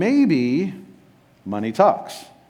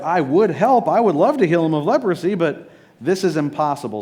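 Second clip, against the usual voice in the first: hammed-up panic from a trapped ruler; flustered protest; 3 semitones higher than usual. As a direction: play the cornered king begging off. Panicked king voiced.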